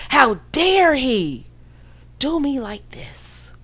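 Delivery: slow, hushed, hammed-up heartbreak; mock wounded whisper. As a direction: play the betrayed victim, fading into a whisper. Mocking a wounded woman.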